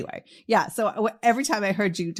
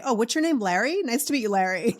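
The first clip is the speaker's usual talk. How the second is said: mock casual greeting; 5 semitones higher than usual. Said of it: "You were so cool".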